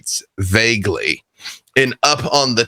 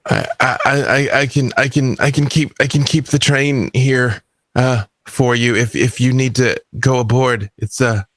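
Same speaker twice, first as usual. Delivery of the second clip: nervous stammer, tripping over the first words; eager, stammering conductor; 3 semitones higher than usual. Acted. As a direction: stutter eagerly, desperate to please. Game master plays the eager conductor.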